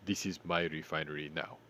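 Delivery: mock pirate takeover line; hammed-up movie quote; Captain Phillips quote. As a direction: imitate the look at me line, hammed-up. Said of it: "They had that moment".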